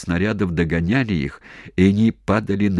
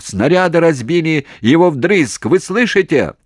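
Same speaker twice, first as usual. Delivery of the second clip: loud, very high strained yell; desperate shout; 10 semitones higher, 6 dB louder than usual. Acted. Commander screaming over the phone. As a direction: scream to be heard. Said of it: "срывая голос, закричал".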